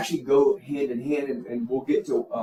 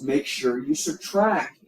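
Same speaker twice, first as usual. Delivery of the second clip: slowed, with "subtract" stressed; teacher's insistent "subtract"; emphatic reminder; slower than usual. Shown as a demonstration. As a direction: repeat the rule with weight. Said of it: "I cannot, cannot emphasize that enough".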